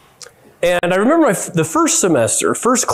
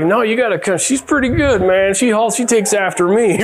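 higher-pitched mock bragging; boastful; 5 semitones higher than usual. Dad bragging to friends and neighbors, boastful. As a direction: playfully talk your kid up, voice lifted.

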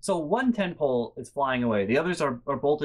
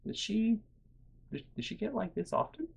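calm, quiet; 6 semitones higher, 8 dB quieter than usual. Retold or imitated. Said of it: "they turn to me really calmly".

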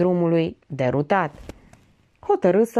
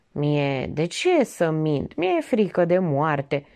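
trembling voice; 2 semitones lower, much slower than usual. Acted. Lae admitting his fear of death, slow and subdued. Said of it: "Oftă și glasul îi tremură".

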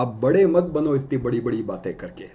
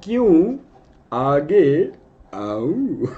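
lightly mimicked villain question; Shakti Kapoor line; much slower than usual. Teacher repeats the villain line for students, lightly voiced. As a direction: tease it like the film villain. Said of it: "तो मैं बोल रहा हूँ".

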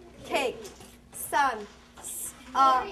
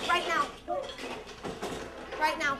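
raised, higher teacher voice, a bit fast; calling out to class; 6 semitones higher, 6 dB louder than usual. Real, not acted. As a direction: call the whole class to tidy up. Teacher commanding class to desks.

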